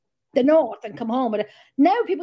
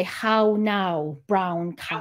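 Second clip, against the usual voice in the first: lower-pitched pronunciation exercise; elocution drill; 7 semitones lower, much slower than usual. Shown as a demonstration. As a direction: recite it like a speech drill. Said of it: "my sister used to make me say".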